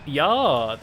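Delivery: loud mock-German "ja"; camp German accent. Shown as a demonstration. Gamer showing how Brits do Germans, camp German accent. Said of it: "British people do a German accent, makes them sound camp".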